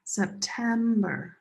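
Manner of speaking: "September" slowly, with TEM drawn out; middle-syllable stress. Shown as a demonstration. Teacher modelling stress for students, "September" as slow sep-TEEEM-ber. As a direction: stretch the second syllable of "September".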